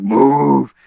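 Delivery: drawn-out retold angry order; mock angry call, word held long. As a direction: re-enact ordering a crowd aside, stretching the vowel. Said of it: "like, my angry voice".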